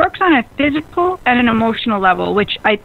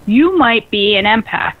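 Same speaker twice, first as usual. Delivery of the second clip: slow punchline. Shown as a demonstration. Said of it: "but I'm gonna change it".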